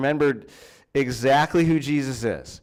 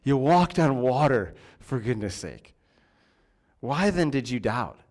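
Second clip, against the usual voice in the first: compassionate question. Retold or imitated. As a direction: ask it with kindness, not blame. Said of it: "more of a compassionate question".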